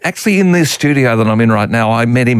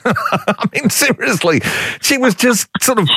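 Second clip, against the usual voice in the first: amused, laughing; 9 semitones higher than usual. Real, not acted. Laughs at own naughty anecdote.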